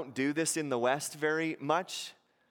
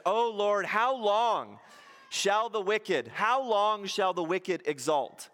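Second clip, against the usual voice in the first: lamenting psalm; 5 semitones higher than usual. Retold or imitated. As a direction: cry out how long, aggrieved. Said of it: "the psalmist says".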